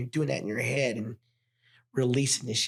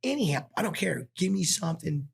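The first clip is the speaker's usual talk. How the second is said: higher, pleading for any help; raised, urgent plea; desperate plea; 5 semitones higher than usual. Retold or imitated. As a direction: beg for anything at all.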